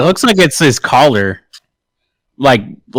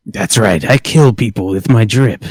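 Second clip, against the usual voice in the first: Drip King; 3 semitones lower than usual. Acted. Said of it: "Can we call him Drip King".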